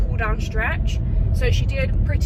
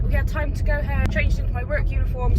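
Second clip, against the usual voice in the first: on a bumpy road; 4 semitones higher than usual. Real, not acted. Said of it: "sorry for the bumpy road".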